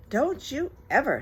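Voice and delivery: scolding mother. Acted. Mrs Lane starts a scolding.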